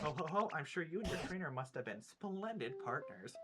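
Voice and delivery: lilting, theatrical storybook voice; genteel game character. Acted. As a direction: play a chatty, courteous Pokemon character. Reads game character's dialogue.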